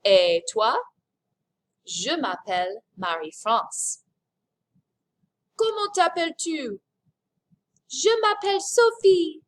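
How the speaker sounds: lightly acted French dialogue, alternating speakers; acted introductions. Shown as a demonstration. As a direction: model a simple French exchange, switching voices slightly.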